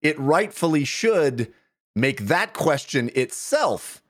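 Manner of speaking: recited like a light poem; limerick. Pretend. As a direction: read it as a playful limerick. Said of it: "in the form of several limericks".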